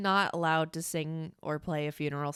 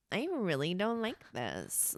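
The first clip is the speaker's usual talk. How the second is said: Kardashian voice; 2 semitones higher, 5 dB quieter, slower than usual. Retold or imitated. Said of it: "like, the Kardashian spectrum where it's like".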